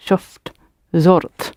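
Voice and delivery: shuft and zort with a short clipped middle vowel. Shown as a demonstration. Teacher demonstrating to learners, short vowel. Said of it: "vowel in the middle has become short".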